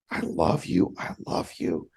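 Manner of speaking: "I love you" fading to an unvoiced, emotion-choked whisper. Real, not acted. Son retelling his dad's words, choked up to a whisper. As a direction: let "I love you" sink into a breathless whisper. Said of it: "I'll get emotional".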